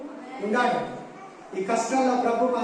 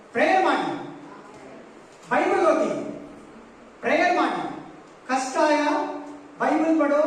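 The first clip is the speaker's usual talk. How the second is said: preacher's rising call to pray and read the Bible; fervent preaching call; 4 semitones higher than usual. Real, not acted. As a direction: drive each command home to the crowd. Preacher urging the congregation to pray.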